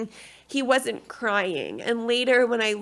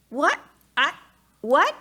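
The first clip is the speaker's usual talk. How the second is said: higher, rushed confused questions; a mild mock of being overwhelmed; lost and frantic in the delivery room; bewildered panic; 4 semitones higher than usual.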